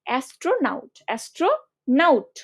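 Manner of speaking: অ্যাস্ট্রোনাউট ending in a clear "naut" diphthong, not "not"; naut pronunciation. Shown as a demonstration. Teacher fixing a spelling trap, অ্যাস্ট্রোনাউট with a distinct "nau-t". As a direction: separate astro from naut in অ্যাস্ট্রোনাউট, sounding the "au". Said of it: "উচ্চারণ করো এভাবেই".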